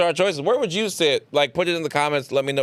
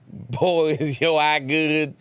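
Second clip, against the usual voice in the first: put-on Southern accent; 3 semitones higher, much slower than usual. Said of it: "with Southern accent saying".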